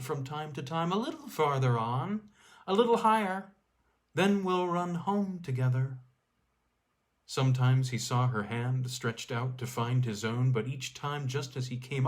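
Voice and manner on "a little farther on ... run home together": alluring whisper. A narrator's reading. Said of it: "alluring accents of her whispering voice".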